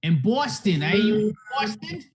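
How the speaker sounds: loud hammy attempt at a Boston accent. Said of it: "I was trying to do my best Boston accent".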